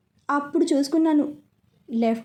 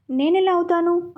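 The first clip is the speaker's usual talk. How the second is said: angry retort; 5 semitones higher than usual. Acted. Wife blamed by her husband, indignant higher retort. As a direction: fire back, offended. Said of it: "అంటూ కోపంగా లేచింది".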